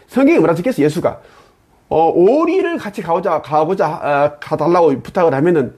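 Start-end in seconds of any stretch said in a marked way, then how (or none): none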